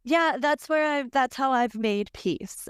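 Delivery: breath catching through tears; catching breath midword. Real, not acted. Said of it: "I'm crying my way through this whole episode".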